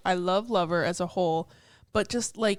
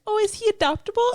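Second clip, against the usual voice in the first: eager excitement; 13 semitones higher, 6 dB louder than usual. Retold or imitated. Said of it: "was like".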